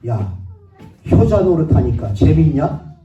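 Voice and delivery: loud, slow, mocking sneer at the dutiful son; mocking father's loud taunt; sarcastic jab. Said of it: "저희 아버님이 저한테 뭐라고 얘기하냐면".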